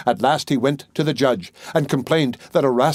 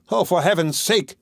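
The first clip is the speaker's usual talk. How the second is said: frightened cry; 5 semitones higher than usual. A narrator's reading. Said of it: "cried the miser".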